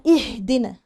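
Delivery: "اهدنا" launched on a firm glottal i; cut hamza with kasra. Shown as a demonstration. Teacher models the starting hamza, firm and clear. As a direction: attack the first i of "اهدنا" cleanly. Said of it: "الهمزه قطع".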